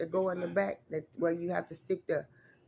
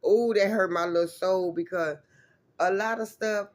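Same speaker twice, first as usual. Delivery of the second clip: hurt feelings; 5 dB louder than usual. Real, not acted. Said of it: "I'm a crybaby".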